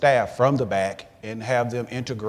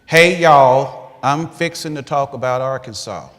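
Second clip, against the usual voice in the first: Arkansas accent; 8 dB louder than usual. Shown as a demonstration. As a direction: play up your Arkansas accent. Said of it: "I'm gonna read a sentence here so you can use it".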